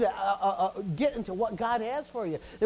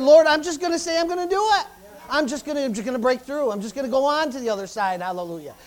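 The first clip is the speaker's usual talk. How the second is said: raised, much higher declaration to the Lord; loud determined prayer; 4 semitones higher, 7 dB louder than usual. Retold or imitated. Retelling his vow to the Lord, loud and much higher. Retold resolve to God.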